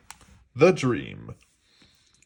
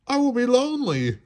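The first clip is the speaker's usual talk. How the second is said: lonely plea; 13 semitones higher, faster than usual. A narrator's reading. Toad despairing.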